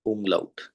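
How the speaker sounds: umlaut spoken alone as oom-lout; saying umlaut. Shown as a demonstration. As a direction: repeat umlaut clearly for the class. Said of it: "in dots को हम बोलते हैं German में".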